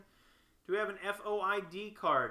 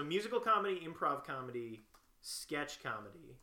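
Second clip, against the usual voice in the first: reading back. Real, not acted. Checking the typed skills list, brisk read-back. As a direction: run through the list smoothly, without gaps.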